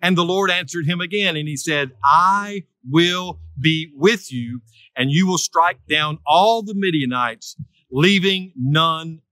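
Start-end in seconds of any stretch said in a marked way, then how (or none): 2.0-9.2 slow, weighty declaration, words drawn out; solemn divine promise. Acted. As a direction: deliver it as God's slow, emphatic promise. Preacher voices God's promise to Gideon.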